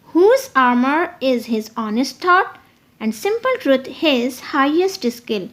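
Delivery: slow, measured recitation; slow poetry recital; poem reading. Shown as a demonstration. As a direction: read the stanza like verse, slowly. Reads poem example.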